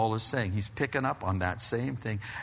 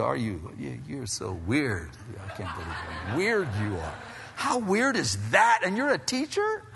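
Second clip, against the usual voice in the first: mock disbelief; 2 semitones lower than usual. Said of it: "he didn't say it like that".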